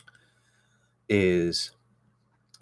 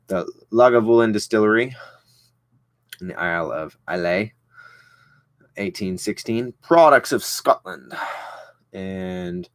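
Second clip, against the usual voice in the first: mock Scottish accent; 3 dB louder than usual. Reading the Lagavulin label to Skylar in a mock Scottish accent. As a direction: put on a bad Scottish lilt to announce the bottle. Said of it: "terrible accent".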